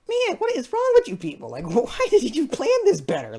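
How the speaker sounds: high squeal of disbelief at the crew; exasperated outburst. Retold or imitated. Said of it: "I'm just like".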